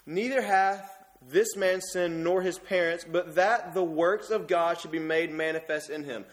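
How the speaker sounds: slow, deliberate reading of holy words; solemn scripture reading. Shown as a demonstration. Preacher rereads the verse for the church, deliberate and solemn. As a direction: let the words of Jesus land, unhurried. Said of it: "Let's listen".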